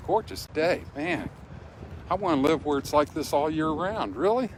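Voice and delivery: gushing over a gorgeous day; excited. Real, not acted. Delighted by the warm day.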